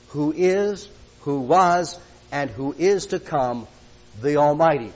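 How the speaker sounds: slow, deliberate reading of the verse; scripture reading. Acted. Preacher reading Jesus' words to the church, slow and solemn. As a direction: let each phrase land, unhurried.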